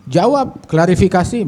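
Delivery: high-pitched retold urging; lightly acted exasperated demand; insistent son. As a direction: press your father to answer, pitch jumping up. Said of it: "anaknya nggak kuat".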